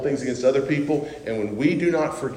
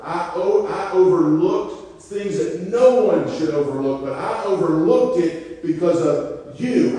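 slowed, a bit higher, reproachful master; the master rebuking his servant; 3 semitones higher, slower than usual. Retold or imitated. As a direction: lay out what you gave him, hurt and stern. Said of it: "He reminds him".

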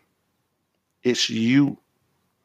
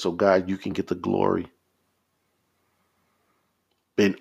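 earnest, measured prayer aloud; scriptural prayer. Real, not acted. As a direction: pray it in long, steady phrases.

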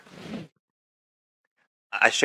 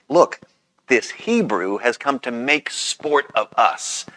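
Potiphar's wife's accusation; 3 semitones higher, slower than usual. Acted. Wife complaining to the other servants about the Hebrew, lightly acted accusation. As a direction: slowly spell out the accusation, mildly dramatized. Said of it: "Potiphar's wife's speech to the other servants".

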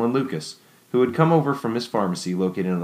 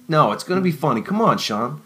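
eager, higher coaxing plea; pleading; 4 semitones higher, 3 dB louder than usual. Acted. Friend urging Sean to come to the party, eager plea. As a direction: talk him into coming, a bit louder. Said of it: "Dylan pleaded".

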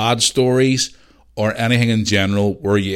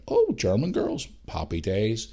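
gleeful; 4 dB quieter, slower than usual. Retold or imitated. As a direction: savour it, pleased. Meeting German girls.

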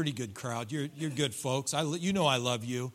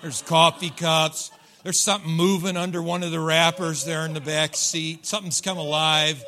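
mock alarm; 6 dB louder than usual. Real, not acted. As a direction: sound shocked at the mess in the back seat. Pastor jokes about a dirty car.

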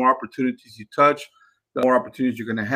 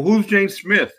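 curious question; 7 semitones higher, slower than usual. Shown as a demonstration. Coaching a caller to ask about title.

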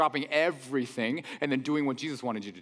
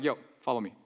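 casual, low-key invitation, pitched down; real calm; 5 semitones lower, 3 dB quieter, faster than usual. Acted. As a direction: say it offhand and unhurried by hype. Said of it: "just, just real calm".

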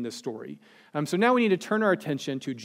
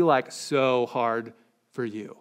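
slow, teasing sarcasm; mock sympathy; 4 semitones lower, slower than usual. Preacher teasing the congregation, slow mock pity. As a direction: pretend it is a huge ask. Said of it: "I can't even say that with a straight face".

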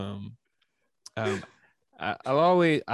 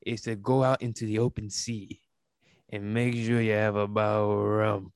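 pirate voice; 4 dB louder than usual. Pretend. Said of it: "doing this voice".

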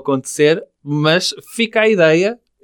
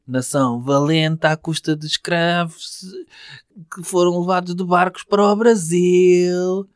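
ironic anthem; slower than usual. Acted. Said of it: "Tem de ser irónico".

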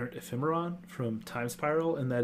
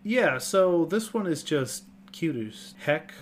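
gushing; 4 semitones higher, 5 dB louder, slower than usual. Real, not acted. Gushing over cute card.

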